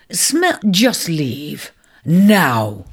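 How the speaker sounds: slow, then a loud snapped Now; curt order. Acted. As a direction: drive the intruder off. Taurus orders the ram away.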